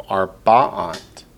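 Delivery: Arba'at with the middle syllable accented; middle-stressed Arba'at. Shown as a demonstration. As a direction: hit the "ba" in Arba'at. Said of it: "notice it accents the Ba".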